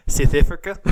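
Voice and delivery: South Africa shouted with a clipped Afrikaans twang; South African accent. Shown as a demonstration. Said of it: "with a South African accent".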